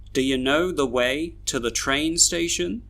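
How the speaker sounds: "Do you" reduced to duh-yuh, "to the" to tuh-thuh; schwa weak forms. Shown as a demonstration. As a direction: weaken "to the", rise on "station". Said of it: "read all these sentences with their schwas".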